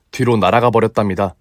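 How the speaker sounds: usual speaking voice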